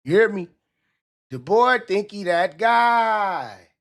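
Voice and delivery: loud, slow call to the chat. Real, not acted. Streamer calling out to his chat, loud and slow.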